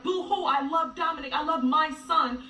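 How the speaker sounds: sarcastic mock boo-hoo; hammed-up pretend weeping; mocking fake sobbing. Mother mocking the ex's fake social media tears, sarcastic. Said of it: "if you wanna be on social media like".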